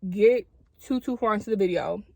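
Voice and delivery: retainers in, slightly muffled speech; talking with retainers in. Real, not acted. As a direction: speak around retainers in your mouth. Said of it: "if you hear me talking like that, I do have my retainers in".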